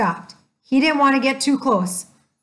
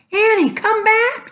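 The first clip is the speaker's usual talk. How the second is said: high, louder call after a runaway sister; shouting; 11 semitones higher, 4 dB louder than usual. A narrator's reading. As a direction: yell for her to come back. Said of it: "Jack shouted".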